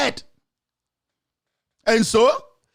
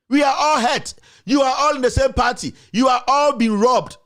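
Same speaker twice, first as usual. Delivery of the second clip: rallying shout; 4 semitones higher than usual. Real, not acted. Rallying the party, raised voice.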